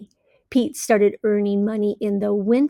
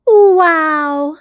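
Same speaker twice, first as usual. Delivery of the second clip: loud, higher amazed wow; amazed Pete; 5 semitones higher, 9 dB louder than usual. Acted. Pete amazed at his full bank, loud wow. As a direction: let the wow burst out.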